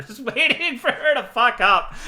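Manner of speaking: can't hold back the laugh while quoting him; giggling out the quote. Real, not acted.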